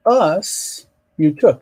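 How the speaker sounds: US drawn out and set apart; slowly front the word US; stress on US. Shown as a demonstration. Teacher showing the fronted object, stress on US. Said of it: "Now the emphasis is on us".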